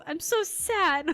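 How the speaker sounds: mock sad. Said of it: "And he goes".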